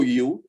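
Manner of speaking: "U" said as "oo"; "U" voiced as a long "oo"; Creole OU sound. Shown as a demonstration. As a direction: pronounce "U" like a double O. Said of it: "double O".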